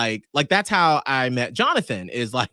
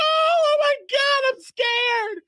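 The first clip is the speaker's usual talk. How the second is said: mock terror. Wife panicking as strangers approach, high squealing. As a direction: squeal it like a spooked kid.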